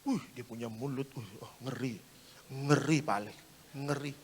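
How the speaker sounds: imitated husband, low and hushed; confidential murmur. Husband confiding about his wife's mouth, hushed confidential murmur. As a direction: confide it softly so she won't hear. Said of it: "Saya bisik-bisik sama bapaknya".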